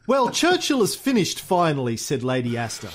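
theatrical, measured memoir narration; lively recital with swelling stresses; memoir reading. A narrator's reading. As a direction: read it like a grand storyteller.

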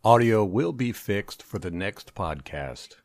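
muffled, degraded recording; worn tape copy. Real, not acted. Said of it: "We experienced technical difficulties during recording".

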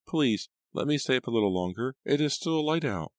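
put-on high pleading child voice; little girl voice. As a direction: beg like a small girl at bedtime.

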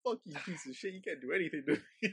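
acted-out insult, held back; retold taunting. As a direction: taunt a ghost, not shouting. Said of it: "to the ghost".

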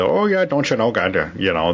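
a light imitation of the Upper Peninsula Yooper accent; a quick sketch of a Yooper "don't you know". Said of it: "that's the Yooper stuff".

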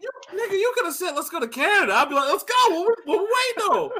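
high hyped-up yelling; excited. Real, not acted. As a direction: shout it like you can't wait. Hyped reply about Canada trip.

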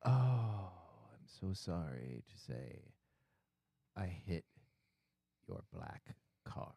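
put-on slow, hushed, low Asian-accented English; halting Asian accent. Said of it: "doesn't speak very good English".

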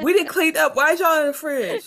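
high, loud outraged homeowner; indignant high yell. Retold or imitated. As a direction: yell it like someone's raiding your house. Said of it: "That's basically what he's saying".

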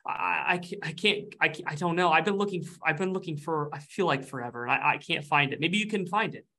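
a hint of a fretful ghost; anxious ghost. Ghost NPC anxious, searching.

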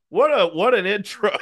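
high-pitched hysterical retelling; screaming with amusement. Retold or imitated. Comic re-enacting friends losing it at the show, screaming amusement. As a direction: squeal it, half laughing. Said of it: "we're just screaming".

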